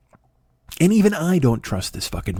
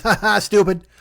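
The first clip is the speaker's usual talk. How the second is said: mocking laugh; 5 semitones higher than usual. George mocks family.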